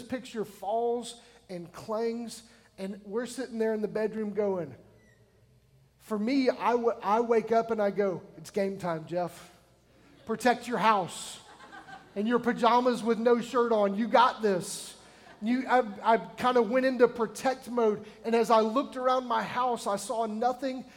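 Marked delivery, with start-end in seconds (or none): 6.0-14.9 loud self-pep talk, half joking; mock pep talk. Preacher pumping himself up at night, mock hype. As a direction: psych yourself up like a coach before the game.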